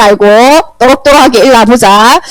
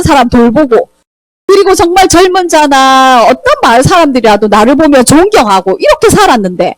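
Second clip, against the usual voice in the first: Job protesting; 2 semitones higher than usual. Acted. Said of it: "이렇게 따졌어요".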